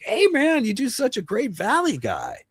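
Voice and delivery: high, excited Hollywood praise; impressed casting guy. Retold or imitated. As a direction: gush like a casting director. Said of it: "But it was like".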